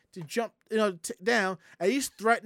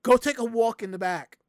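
firm order; 6 dB louder than usual. Retold or imitated. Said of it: "he says".

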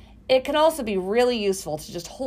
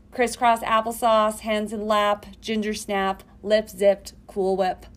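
kindergarten teacher voice; slower than usual. Shown as a demonstration. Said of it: "my personal favorite".

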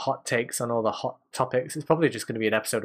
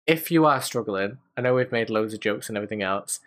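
sincere; 3 semitones lower than usual. Real, not acted. Serious sign-off, urging viewers get help.

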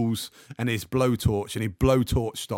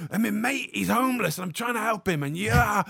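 high, panicky rush of words; freaking out; 10 semitones higher than usual. Retold or imitated. To the clamper, a frantic high-pitched plea. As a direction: pour it out in rising panic. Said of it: "I begin to freak out".

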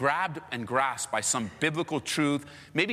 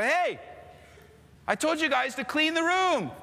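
mock stern dad; 11 semitones higher than usual. Dad scolding kids again.

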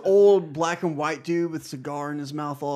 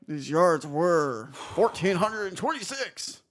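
put-on slow, forced Scottish accent; stilted, drawn-out bad Scottish accent; Sean Connery. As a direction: push out a laboured Scottish impression. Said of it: "God, that feels forced".

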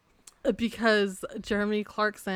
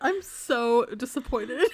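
mock disappointment; 2 semitones higher, much slower than usual. Real, not acted. Teasing reaction to the show.

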